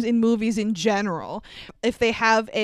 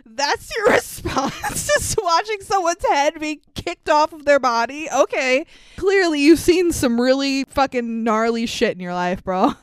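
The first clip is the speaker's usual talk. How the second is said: incredulous retort; 2 semitones higher than usual. Retold or imitated. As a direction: throw the question back in disbelief. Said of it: "And I'm like".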